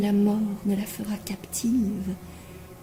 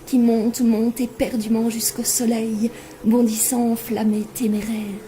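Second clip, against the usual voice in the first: louder, driving build through the verse; ardent, soaring recitation; 2 semitones higher, 4 dB louder than usual. Acted. Poet likens herself to a lark rising sunward, ardent recitation. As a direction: let it climb eagerly like the lark.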